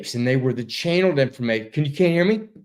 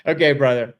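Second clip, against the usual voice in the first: ordinary delivery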